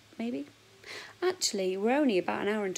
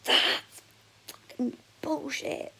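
mock outburst; 7 semitones higher, 3 dB louder, much slower than usual. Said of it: "where I go".

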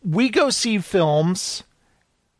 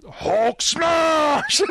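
high mock shout of a catchphrase; kid's shout; 8 semitones higher than usual. The kid in the cinema yelling a catchphrase, high mock shout. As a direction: belt it like a little kid at the movies.

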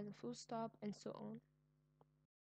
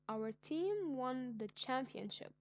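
slow, louder, proud announcement; slowed, louder victory exclaim; excited announcement; 2 semitones higher, 4 dB louder, slower than usual. Shown as a demonstration. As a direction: share the big win with real pride. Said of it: "showing my excitement".

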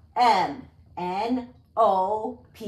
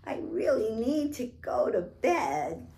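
a gently pleading queen; mildly voiced sleepy queen; 3 semitones higher than usual. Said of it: "she said".

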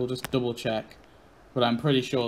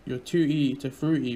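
lightly singsong copy of the sign guy's jingle; mock jingle. Player parroting the mascot's jingle, lightly singsong. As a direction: echo the jingle playfully. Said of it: "set your socks on hop".

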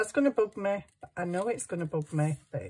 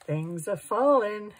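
alarmed call; 4 semitones higher, 6 dB louder than usual. Real, not acted. Repeats louder, alarmed.

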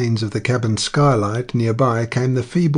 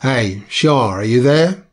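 hurried call; 5 dB louder than usual. A narrator's reading. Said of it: "called hurriedly".

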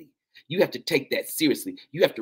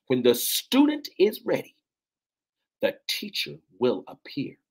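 proclaiming; 3 semitones higher than usual. Real, not acted. Repeats proverb, less force.

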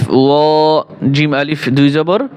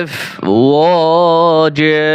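slow drawn-out tajweed chant; Quran recitation; much slower than usual. Shown as a demonstration. Teacher resuming the verse for students, slow recitation. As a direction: hold each vowel in long measured recitation. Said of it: "এখান থেকে ধরেন।".

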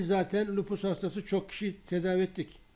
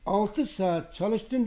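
slow proud quote; 4 semitones higher, much slower than usual. Retold or imitated. Quoting the happy patient.

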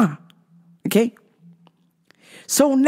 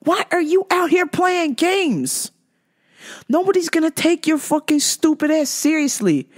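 higher, yelled demand; angry yell; 5 semitones higher than usual. Real, not acted. Yelling at straight men on apps, angry yell.

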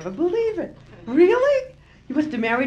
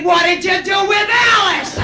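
sly jab; 9 semitones higher, 6 dB louder than usual. Retold or imitated. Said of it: "you look at him and say".

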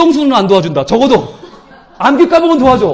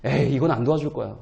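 low, soft dismissive mutter; doubting inner voice; 12 semitones lower, 10 dB quieter than usual. Retold or imitated. Believer doubting his own prayer, low soft dismissive mutter. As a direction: shrug it off quietly to yourself. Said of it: "속으로".

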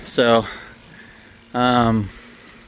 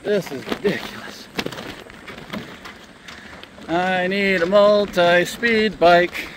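out of breath pedalling uphill; strained, panting while climbing; cycling hard; 6 semitones higher than usual. Real, not acted. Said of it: "My legs are burning".

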